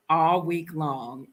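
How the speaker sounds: slow, each word weighed; a slow, pointed repeat; slow emphasis. Real, not acted. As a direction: drag it out for emphasis. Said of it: "repeats for emphasis".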